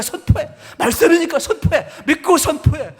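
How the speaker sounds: high, loud commanding voice of God; voicing God telling the preacher to proclaim. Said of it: "하나님이요, 그런 감동을 주시더라고".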